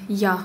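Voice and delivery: teacher's demo of Russian-like «я»; Russian-style я. Shown as a demonstration. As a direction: open ya on «я». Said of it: "как русское".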